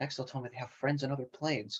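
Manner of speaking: very soft, very quiet under-breath mutter. Voicing a character awed by how many connections the group has, muttering under her breath. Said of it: "hear her muttering under her breath".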